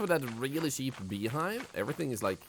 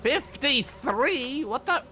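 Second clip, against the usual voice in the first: surprised; 12 semitones higher, 6 dB louder, much slower than usual. Real, not acted. Shocked at the quota number.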